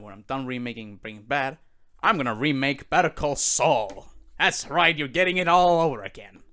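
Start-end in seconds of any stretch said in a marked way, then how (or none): 2.0-6.4 loud, triumphant, high; gleeful shout. Real, not acted. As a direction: crow it out proudly. Gleeful announcement.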